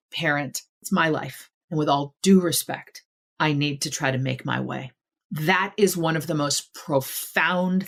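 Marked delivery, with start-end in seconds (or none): 0.1-4.9 softer, measured acted appeal; respectful, loving. Grown child telling a parent it's my life, respectful and loving. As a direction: say it gently and respectfully, settling lower at the end. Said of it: "respectful, loving way".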